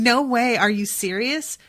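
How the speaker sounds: mock over-the-top reaction, loud at the start; exaggerated fake enthusiasm. Girl showing off to no one, exaggerated fake amazement. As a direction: imitate someone putting on amused disbelief. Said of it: "walks up to him with this really exaggerated".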